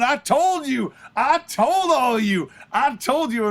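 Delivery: excited, repeated taunt; gloating manager. Retold or imitated. Manager jumping up and down at the retirement, gloating. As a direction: crow it, stretching the words. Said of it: "Jim is jumping up and down going".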